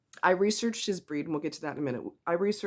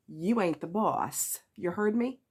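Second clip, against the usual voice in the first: mock mother dog; 3 semitones higher than usual. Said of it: "as if to say".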